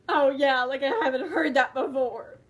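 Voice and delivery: loud sarcastic laughing scoff. Acted. Mocking the viewers' old joke, sarcastic laugh. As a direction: roll your eyes through a laugh.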